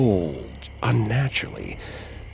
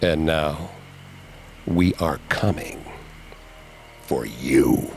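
groaning spirits; 6 semitones lower than usual. A narrator's reading. Massacred spirits curse Sarah through the medium, low groaning. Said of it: "groaned back at me".

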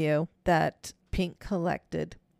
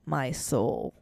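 slightly lowered eerie voice; different voice; 4 semitones lower than usual. Retold or imitated. Retelling the voice caught on the recording, a different voice. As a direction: lightly imitate a ghostly voice, a bit low. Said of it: "which is not her voice".

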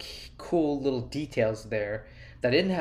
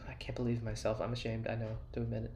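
hushed mock-ashamed whisper; 9 dB quieter than usual. Real, not acted. Host confessing he never listened to George's podcast, whispering.

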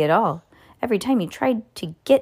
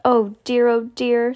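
higher, louder mock lament; dismayed; 4 semitones higher, 3 dB louder than usual. A narrator's reading. Mother finds ducks have taken over the house, dismayed cry. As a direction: fret aloud in a raised pitch.

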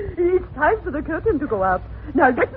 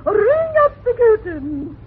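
excited shout; 3 semitones higher than usual. Acted. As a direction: call it out with a thrill. Excited prompter starts the play.

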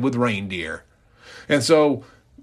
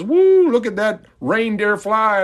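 high loud whoop of amazement; excited cheer; 9 semitones higher, 4 dB louder than usual. Retold or imitated. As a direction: cheer him on like a dazzled crowd. Crowd cheers flying reindeer.

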